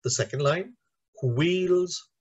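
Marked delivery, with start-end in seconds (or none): 1.2-2.1 slow, separated syllables in wheels on the track; measured sounding-out of four beats; word by word. Shown as a demonstration. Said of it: "four syllables again".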